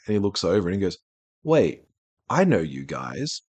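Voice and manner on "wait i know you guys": put-on the dragon in disguise, half-hearted Sean Connery accent, slowing on "I know you guys". Game master voicing the disguised dragon to the players, light Sean Connery accent. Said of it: "I'm giving him the same accent as the dragon".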